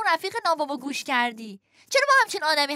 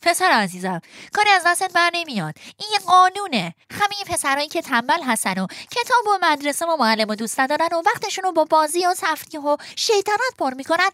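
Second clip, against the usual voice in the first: consoling. Acted.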